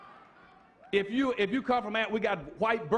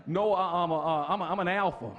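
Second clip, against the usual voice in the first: lower, sheepish mock dodge with a laugh; mocking evasive answer; 3 semitones lower than usual. Preacher mocking a flustered man who denies being black.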